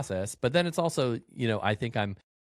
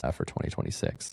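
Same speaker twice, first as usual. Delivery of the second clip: voice crack; 6 semitones lower, 4 dB quieter than usual. Real, not acted. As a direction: voice cracking on the last words. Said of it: "had a little teenage voice crack there".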